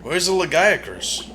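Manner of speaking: normal talking voice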